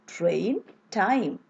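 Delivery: "train" rising, "time" falling; model pair train time. Shown as a demonstration. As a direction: lift "train" and drop "time". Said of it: "So it goes like this".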